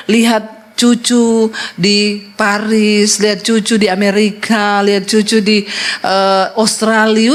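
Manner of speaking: suara ibu kaya yang sedikit dipamerkan, sangat lambat; ibu pamer cucu. Retold or imitated. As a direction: memamerkan cucu satu per satu dengan pelan. Ibu pamer cucu di luar negeri. (ibu tua pamer, bicara sangat lambat)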